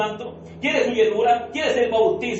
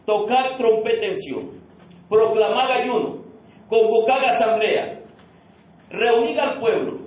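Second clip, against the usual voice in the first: solemn scripture reading. Acted. Reads Joel 2 aloud to congregation.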